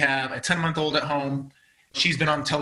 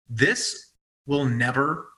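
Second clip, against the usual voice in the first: slow, deliberate resolve; measured, slow determination; solemn retold vow; 3 semitones lower, slower than usual. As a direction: weigh out each word like a promise to yourself.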